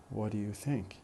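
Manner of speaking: "What do you think?" run together with weak do and you; connected speech. Shown as a demonstration. Teacher shows students the example question, in connected speech. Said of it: "unstress the auxiliary do".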